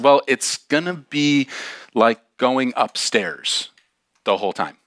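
slow, spaced-out warning; deliberate warning. Retold or imitated. Hiker warning the slow girl about Giant, deliberate warning. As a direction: break it into pieces with weighty pauses. Warns her of the long climb.

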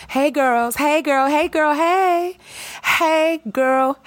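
put-on high, building squeal of hey girl; excited girlfriend greeting. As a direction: greet the girls like old friends.

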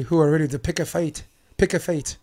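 mock Braveheart Scottish brogue; playing William Wallace with a Scottish accent. Podcast host hams up Wallace's Scottish accent for his co-host. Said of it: "It's a good accent".

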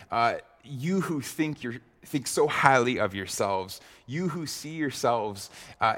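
mild tongue-in-cheek mockery of the great men; a light sarcastic jab at the proud. Pastor voicing David mocking his enemies, lightly sarcastic. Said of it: "very much so tongue-in-cheek ... being sarcastic".

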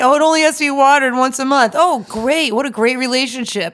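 sarcastic pretend delight; mock enthusiasm. Friend mocking an easy relationship, sarcastically. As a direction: gush as if impressed, meaning the opposite. Mocking praise of low maintenance.

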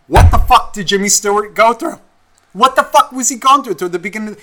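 loud, high-pitched indignant demand; outraged. Acted. What no girl ever asks about Jimmy Stewart, outraged. Acting out outrage nobody voices.

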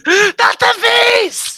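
high-pitched mock panic; Nicolas Cage. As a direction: echo the hammed-up movie wail. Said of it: "is there a Nicolas Cage fiasco".

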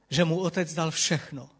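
ordinary talk

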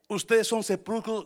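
loud, accusing declaration; denouncing. Retold or imitated. Jesus rebuking the Pharisees, loud accusing voice. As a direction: hurl the accusation at them. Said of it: "un día les dijo a los fariseos".

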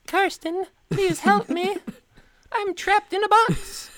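high, feeble cry for help; mock plea from trapped in a box; weak little cry. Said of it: "It's like".

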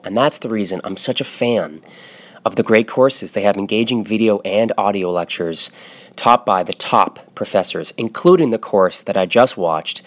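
smooth podcast ad read for The Great Courses; a light, friendly pitch to listeners; sponsor ad read. Acted. Host reads a sponsor ad.

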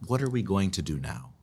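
sincere, even-pitched question; earnest. Shown as a demonstration. Host showing how changed intonation redeems the question, earnest. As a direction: ask it plainly, really wanting to know. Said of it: "then it's, it's earnest".

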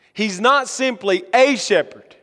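emphatic "a", said as a separate word; stress on A. Shown as a demonstration. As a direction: lean on "a" to set up a contrast. Contrasting a shepherd with my shepherd.

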